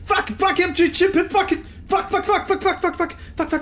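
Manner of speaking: high-pitched, rapid-fire panic; panicked swearing. Real, not acted. Player fleeing in a game, panicked swearing.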